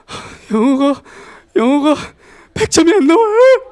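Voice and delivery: high, loud whiny student voice crying over a score; tearful student. Retold or imitated. Student complaining to the teacher, high and whiny. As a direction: play the upset student whining about ninety-seven points.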